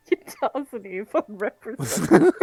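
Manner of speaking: words breaking into laughs; helplessly amused; laughing. Real, not acted. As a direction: repeat it through real laughter. Player laughingly repeats another's insult.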